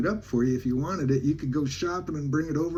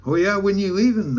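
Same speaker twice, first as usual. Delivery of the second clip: higher-pitched imitation of her asking; curious question; 6 semitones higher, 4 dB louder than usual. Woman asking the teller when he leaves, retold curious question.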